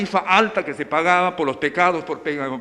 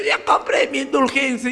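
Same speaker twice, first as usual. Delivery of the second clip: put-on drunk's boast; 5 semitones higher than usual. Drunk man in the street.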